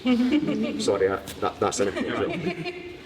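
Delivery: words broken by a real laugh. Real, not acted. Laughing at own joke.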